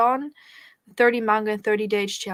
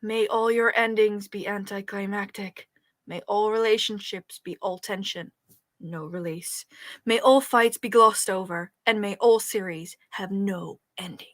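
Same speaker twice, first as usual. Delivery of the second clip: slow, dramatic curse voice; laying a curse. Shown as a demonstration. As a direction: chant it like a solemn curse. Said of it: "curse voice".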